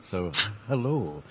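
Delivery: slow, laughing Scottish film-star accent on "hello"; Sean Connery accent. Shown as a demonstration. Host reads a listener's greeting in a Scottish film-star accent. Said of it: "Do it in my best Sean Connery accent".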